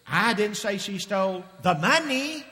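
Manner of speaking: "money" given the weight at the end; stress on money. Shown as a demonstration. Preacher finishing the demo, stress on money. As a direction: lean on the word "money". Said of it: "Let me say it to you in different ways".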